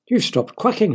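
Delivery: high, astonished; be amazed she stopped; surprised father. A narrator's reading. A father amazed his daughter stopped quacking. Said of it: "her father said".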